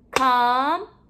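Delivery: COMPANY in three long, separate syllables; a beat on each syllable of COMPANY; clapped-out syllables. Shown as a demonstration. Teacher clapping out syllables for pupils, one beat at a time. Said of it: "We're going to clap out the syllables".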